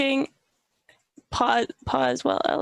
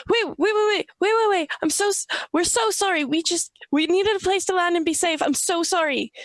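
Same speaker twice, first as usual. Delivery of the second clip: panicked pleading; 6 semitones higher than usual. Acted. Pleading with armed creature.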